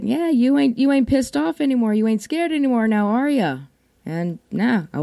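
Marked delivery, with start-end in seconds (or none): 0.0-3.6 higher, knowing tease; teasing husband. Retold or imitated. Husband pointing out she's no longer upset, higher teasing. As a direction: needle her gently, pleased with himself. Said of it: "he's like".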